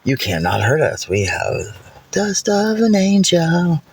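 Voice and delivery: mock taunt. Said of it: "they go".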